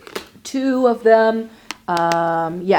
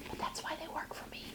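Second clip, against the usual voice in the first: very soft, confiding whisper; barely audible whispered aside; 8 semitones higher, 21 dB quieter, faster than usual. Real, not acted. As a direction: drop right down into a whisper. Whispered aside about her palette.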